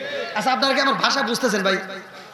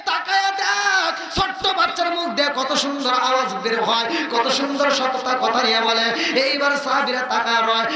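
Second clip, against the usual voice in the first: waz preaching; 2 semitones higher than usual. Real, not acted. Preacher telling the crowd of the Prophet and Bilal, impassioned chanting. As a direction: preach at full force, stretching line endings into melody. Preaches a story at full force.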